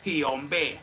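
"hombre" said as "ombe", Central American style; natural-sounding Central American interjection; Central American accent. Shown as a demonstration. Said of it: "como si yo fuera de Centroamérica".

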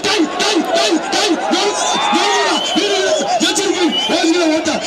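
high, fired-up crowd hype; excited hype shouting. Real, not acted. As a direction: pump up the crowd. Bull breaks loose, announcer hypes.

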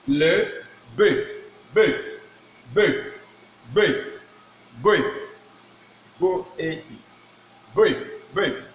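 "bœuf" drilled with French eu vowel; French pronunciation. Shown as a demonstration. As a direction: repeat "bœuf" cleanly. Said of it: "talking about le bœuf".

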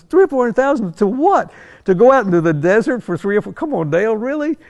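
high, loud disbelief at the price; incredulous. Retold or imitated. To Dale over the engine cost, incredulous and loud. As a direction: make it sound absurd, voice climbing. Exasperated retort to costly plan.

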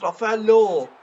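loud, high shout of the player's name; excited yell. Real, not acted. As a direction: call out the name like a commentator. Commentating a chance, shouting name. (heyecanlı bağırış)

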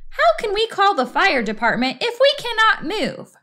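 high, agitated questioning; distressed wife. A narrator's reading. Wife arguing with husband in the hole, high agitated protest. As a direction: demand it in a high, upset voice.

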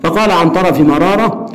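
steady reading of a story dialogue; reading aloud. Shown as a demonstration. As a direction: read the exchange out for the class. Reads dialogue passage aloud. (قراءة حوار القصة بهدوء)

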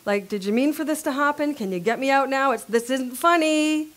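crying out for help. Retold or imitated. Joseph calling up from the pit to his brothers, lightly voiced fear. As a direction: plead up to them, mildly frightened. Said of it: "crying out to his brothers".

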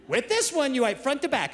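put-on emphatic little kid, stressing "this". Kid repeats instruction, higher.

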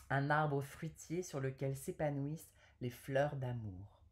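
measured poetry reading with pauses between verses; poem recital. Acted. Woman reading an Apollinaire love poem to viewers, poem recital. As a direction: recite the verse phrase by phrase, carefully articulated.

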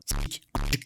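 censored word; bleeped out. Real, not acted. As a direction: swear cut by a bleep. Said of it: "şu an dediğim her şey sansürleniyor".

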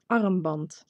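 "armband" said as a Dutch word; "armband" demonstrated in Dutch for learners; Dutch pronunciation. Shown as a demonstration. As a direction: teach "armband" with native Dutch sounds. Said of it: "teach you the word bracelet".

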